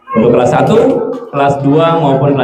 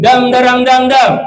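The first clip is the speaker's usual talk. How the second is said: from the belly; 9 semitones higher than usual. Shown as a demonstration. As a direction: push it out from the belly. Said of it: "Dengan suara perut ya".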